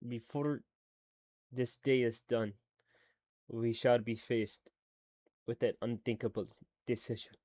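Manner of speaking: slow, halting attempt at a Latvian accent; lightly imitated Latvian accent, measured pauses. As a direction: try out a Latvian accent phrase by phrase. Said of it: "listen to his accent".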